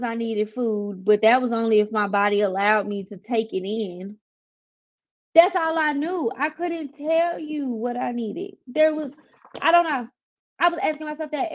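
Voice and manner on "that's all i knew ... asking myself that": higher-pitched, exasperated insistence; worked up and higher in pitch. Real, not acted. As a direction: plead that you had no answer. Frustrated at not knowing her needs.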